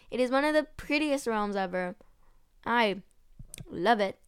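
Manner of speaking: talking around a piece of candy; mouth full. Real, not acted. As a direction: speak with candy in your mouth. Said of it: "I'm eating raw candy".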